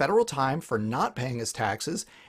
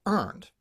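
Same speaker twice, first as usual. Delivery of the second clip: EARNED set apart with a falling emphasis; stress on EARNED; 3 semitones higher than usual. Real, not acted. Speaker to viewers on creationists' credentials, stressing EARNED. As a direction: lean on the word EARNED. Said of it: "emphasis on the word earned".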